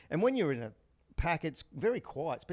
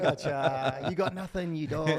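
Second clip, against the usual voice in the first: mock taunting yell; 2 semitones higher, 5 dB louder, slower than usual. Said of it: "like his yell".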